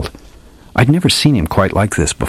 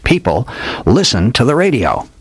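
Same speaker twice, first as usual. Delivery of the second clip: lightly voiced old detective, a bit higher, grand and theatrical; hardboiled old detective; 5 semitones higher than usual. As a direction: play the old gumshoe spinning a dramatic yarn. Old detective tells his tale.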